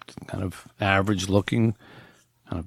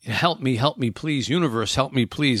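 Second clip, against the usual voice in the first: higher, mock desperate pleas; mock pleading; 5 semitones higher than usual. People imitated begging God for help, mock pleading. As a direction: beg the universe, half-hearted imitation. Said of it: "we tend to say".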